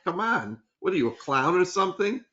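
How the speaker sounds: mock scornful. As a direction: act out a player brushing off the coach. Acts out player's scornful reaction.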